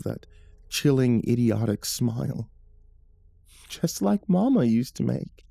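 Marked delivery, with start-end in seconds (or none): 3.7-5.5 high, lilting sing-song, hammed-up; hokey sing-song voice. A narrator's reading. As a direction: sing it out like a dazed old lady. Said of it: "in a hokey, sing-songy voice tone".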